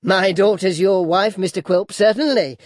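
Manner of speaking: high, loud, measured sarcasm; mock-amused mother-in-law; satirical old lady. A narrator's reading. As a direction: remind him pointedly, affecting amusement. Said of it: "said the old lady with a giggle, meant for satirical".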